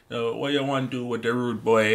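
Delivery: mock Jamaican accent, lightly put on; fake Jamaican accent. Reactor mocking a rapper's put-on voice, fake Jamaican accent. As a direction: imitate a rapper's fake Jamaican patois. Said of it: "that fake Jamaican accent".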